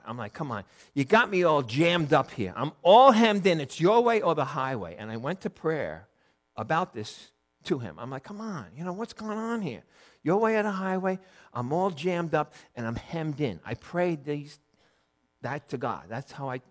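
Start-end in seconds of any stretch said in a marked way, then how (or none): 0.3-5.0 retold exasperated outburst, louder in the middle; angry complaint. Man praying angrily to God about being boxed in, exasperated. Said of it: "I was, like, angry with God". 8.2-13.6 higher-pitched retold complaint; upset prayer. Man telling God he is jammed up, upset complaint. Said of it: "I was upset".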